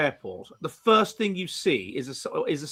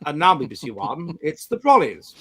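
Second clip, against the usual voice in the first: posh BBC announcer. Shown as a demonstration. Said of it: "like that. That's, that's what I want".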